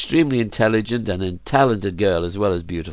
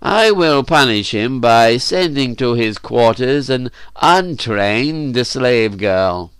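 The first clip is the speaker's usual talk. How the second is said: Cernus; 2 semitones higher, 3 dB louder, slower than usual. Acted.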